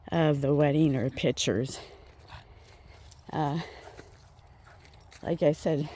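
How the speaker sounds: slightly winded while walking; out of breath. Real, not acted. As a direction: talk while catching your breath. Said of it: "I'm kinda out of breath".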